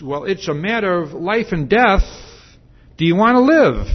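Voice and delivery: urgent questioning. Retold or imitated. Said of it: "he says".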